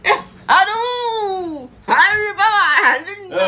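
laughing. Real, not acted. Laughing while repeating name.

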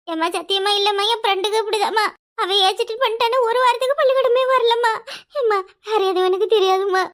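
whiny, pleading denial; whining. Acted. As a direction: whine your innocence to mum. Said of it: "நீ எப்படி சினுங்குற?".

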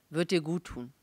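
mildly insistent husband; urging. A narrator's reading. Husband coaxing his reluctant wife out, urging. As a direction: gently push her to agree. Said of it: "drängte er".

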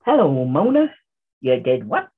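playful imitation American accent. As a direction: echo it back in an American accent. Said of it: "she sounded more American there".

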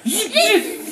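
high buzzing zzz; cheerleading the kids' buzz; contest buzz. Shown as a demonstration. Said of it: "really loud 'cause it's gonna be a contest".

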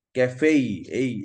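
ক্যাফেই drawn out to show the "ei"; "ei" vowel shown. Shown as a demonstration. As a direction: isolate এই, gliding from e to i. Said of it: "এই বললে আমাকে ইআই রাখতে হবে".

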